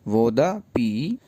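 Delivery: वो दा पी spoken very slowly, word by word; slow example reading. Shown as a demonstration. Teacher slowly reading the phrase for students. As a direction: space out each word of वो दा पी. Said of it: "वो दा मतलब मेरा".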